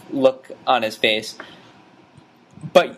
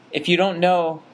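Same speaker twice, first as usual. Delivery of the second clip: Walt; 5 semitones higher than usual. Retold or imitated. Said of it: "and Walt says".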